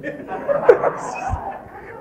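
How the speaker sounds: a high, breathy burst of laughter; amused laughter mid-sermon; real laugh. Real, not acted. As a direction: laugh at the thought. Preacher laughs at imagined listener.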